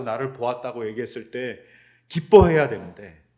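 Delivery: loud, rebuking tirade at a disciple; angry scolding. Pretend. Risen teacher rebuking a doubting disciple, loud and angry. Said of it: "원망의 말씀을 하셨을까요".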